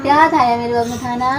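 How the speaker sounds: put-on baby-talk lisp, K turned to T; lisped sweet-talk to a friend. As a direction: playfully fake a childish lisp. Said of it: "ऐसे क्यों बोल रही है?".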